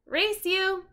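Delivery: high, loud playful dare; eager race challenge. Acted. Annie challenging Jack to race home, a playful high call. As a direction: dare him to race you.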